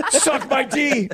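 high-pitched crude holler, played for laughs; mock taunting yell. Imitating a player pointing at his teammates, mock taunting yell. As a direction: holler it like a cocky ballplayer.

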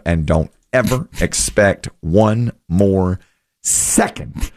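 slow, deliberate retold refusal; emphatic quote. Quoting the screenwriter refusing any reboot, slow and emphatic. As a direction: lay it down slowly, with pauses. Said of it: "He says emphatically".

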